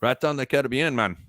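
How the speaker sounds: put-on rough, playful stab at a Caribbean accent; made-up Caribbean accent. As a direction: toss in an improvised Caribbean accent. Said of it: "I don't know what accent that is".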